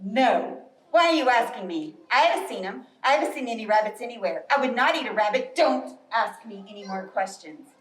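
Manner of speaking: lightly voiced grumpy Bear. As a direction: brush off the nosy squirrel, a bit huffy. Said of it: "And Bear says".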